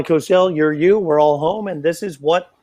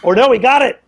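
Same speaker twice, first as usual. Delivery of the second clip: surprised; 7 semitones higher, 6 dB louder, faster than usual. Real, not acted. Corrects himself as out hits.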